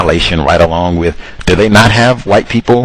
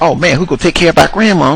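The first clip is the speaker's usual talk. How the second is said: mock whining; 7 semitones higher, faster than usual. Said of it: "they whined and cried about that".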